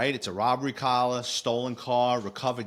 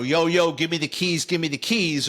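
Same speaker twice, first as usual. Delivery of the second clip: louder, higher imitation of a robber; mock stick-up demand; 3 semitones higher, 4 dB louder than usual. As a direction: lightly act out a robber demanding keys. Acts out robber's demand in lineup.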